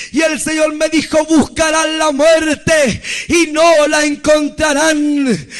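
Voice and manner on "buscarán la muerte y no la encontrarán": slow, weighty preaching delivery; measured, emphatic warning from God; solemn pronouncement. Retold or imitated. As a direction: declare it as slow prophecy. First take of divine pronouncement.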